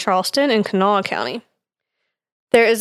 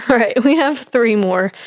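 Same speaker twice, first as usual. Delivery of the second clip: breathless, short of air; out of breath. Real, not acted. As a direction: speak while winded. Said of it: "I'm so out of breath".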